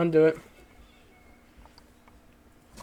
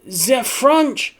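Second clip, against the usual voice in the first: put-on loud, high, slow German accent; hammed-up fake German accent; bad German accent; 9 semitones higher, 6 dB louder, much slower than usual. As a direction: attempt an outraged-sounding German accent, drawn out. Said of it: "I can't do a German accent".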